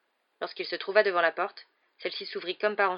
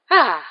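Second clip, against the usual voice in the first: loud, higher-pitched "ah" sigh; soupir sonore; 5 semitones higher, 14 dB louder than usual. A narrator's reading. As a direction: let out a satisfied, loud "ah" after a drink. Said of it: "soupira la tante Marge". (soupir bruyant après une gorgée)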